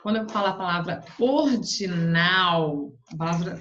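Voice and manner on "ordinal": ORDINAL with NAL drawn out and strong; stress on last syllable. Shown as a demonstration. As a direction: lean long on the final NAL of ordinal. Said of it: "o tom saiu mais alto".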